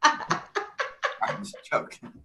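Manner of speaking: high giggling while talking; laughing. Real, not acted. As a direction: giggle through the words.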